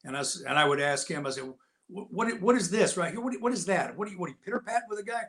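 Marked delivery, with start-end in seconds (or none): 1.9-5.2 fast mocking jab, pitched up; mocking taunt. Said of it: "he was ribbing me".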